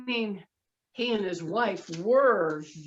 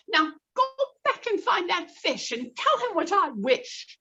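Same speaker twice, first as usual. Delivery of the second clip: loud, higher scolding; angry wife; 7 semitones higher, 6 dB louder than usual. Acted. Wife scolding the fisherman, loud angry. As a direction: tell him off loudly, much higher.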